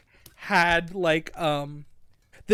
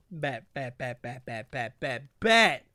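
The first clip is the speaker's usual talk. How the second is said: eager mouse hero; 8 semitones lower than usual. Retold or imitated. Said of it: "And Matthias is like".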